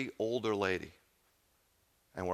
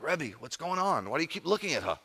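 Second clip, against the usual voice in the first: retold bewildered questioning in a higher voice; puzzled questioning; 8 semitones higher than usual. Friend asks rabbi about staring at the old lady, puzzled. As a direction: imitate a baffled friend, high and swooping.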